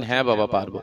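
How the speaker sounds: eager little son promising his father; small boy. Acted. Seven-year-old son answers father. (ছোট ছেলের গলায়, নরম ও উঁচু সুরে)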